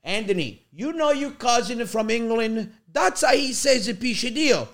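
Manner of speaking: put-on slowed Italian-English accent; imitated Italian dad. Dad explaining cousin from England, lightly imitated Italian accent. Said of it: "he goes".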